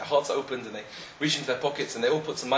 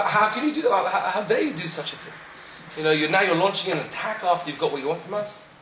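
indignant retort; 5 semitones higher than usual. Acted. Drinkers indignantly answer the rabbi.

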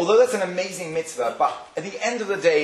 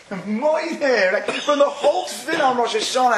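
higher, laughing amazement at the word; laughing disbelief; 8 semitones higher than usual. Real, not acted. Telling the congregation, laughing in disbelief. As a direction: burst out laughing in wonder.

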